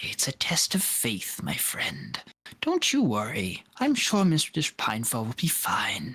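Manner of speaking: chiding tut-tut tone, sing-song and reassuring. Voicing a dragonborn woman who tut-tuts at the player: voicing a tutting dragonborn woman. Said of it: "tut-tuts at you and says".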